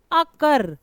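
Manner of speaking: अकर with a short "uh" first, stress on कर; short first vowel. Shown as a demonstration. Teacher modelling अकर for stress, short first vowel. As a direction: clip the अ of अकर, lean on कर. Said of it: "छोटा वाला आ है".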